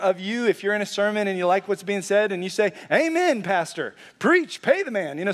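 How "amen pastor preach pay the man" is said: higher, enthusiastic call-out from the pews; playful church hype shout; mock amen shout. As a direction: cheer the preacher on like a fired-up congregant. Congregant calling out during sermon.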